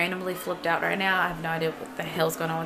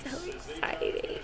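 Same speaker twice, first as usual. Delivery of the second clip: sarcastic; 8 semitones higher, 8 dB quieter, slower than usual. Real, not acted. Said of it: "hungover, sarcastic".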